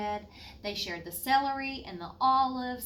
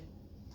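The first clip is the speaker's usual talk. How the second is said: sigh; 15 dB quieter than usual. Acted. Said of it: "Miss Comfort sighed".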